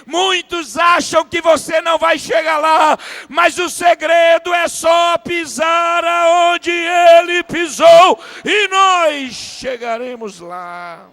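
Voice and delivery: loud, high shouted preaching, held on one pitch; full-force preaching. Real, not acted. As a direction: stretch the words out in a ringing pulpit shout.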